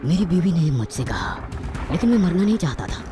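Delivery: ordinary delivery, nothing marked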